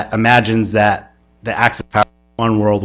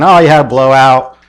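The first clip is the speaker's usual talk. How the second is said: jovial cop; 3 semitones higher, 4 dB louder than usual. Retold or imitated. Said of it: "they sort of have this jovial conversation".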